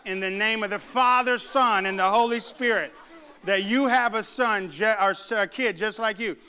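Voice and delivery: emphatic, measured pronouncement, phrase by phrase; mock solemn prayer. Mother praying over her rebellious son, mock solemn. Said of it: "She goes, I pray".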